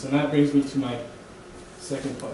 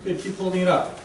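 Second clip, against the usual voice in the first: casual God voice. Retold or imitated. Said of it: "God will say".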